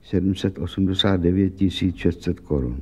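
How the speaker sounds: slightly low, blank, numbers repeated absently; dazed repeat. Acted. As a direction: echo the sum as if stunned. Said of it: "podívala se blbě".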